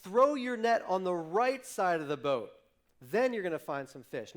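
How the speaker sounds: loud, high, cheerful suggestion shouted across; calling out an idea. Retold or imitated. Jesus shouts advice to the fishermen, loud and high. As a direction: call the tip out brightly over the water. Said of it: "And he says".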